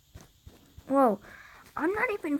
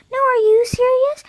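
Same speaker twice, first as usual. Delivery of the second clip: higher, louder shrieked question; high shout; 12 semitones higher, 9 dB louder than usual. Acted. State kid shrieking back at the other state. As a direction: shriek the line in disbelief.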